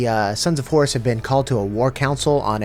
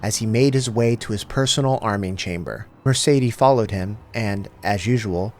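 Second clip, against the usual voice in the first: measured audiobook-style reading; reading a novel aloud to the viewers; story reading. A narrator's reading. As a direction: read the passage like a narrator. Reads the book passage aloud.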